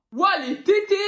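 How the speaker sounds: high, loud delighted squeal; greedy baby glee. Acted. Baby spotting its mother's breasts, greedy glee.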